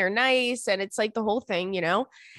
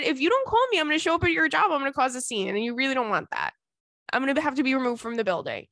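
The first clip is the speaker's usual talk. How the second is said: high-starting mock warning that settles down; joking threat; 3 semitones higher, faster than usual. Woman retelling her warning to her crush, run-on mock threat. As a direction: rattle off a playful threat without stopping. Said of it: "I threatened him".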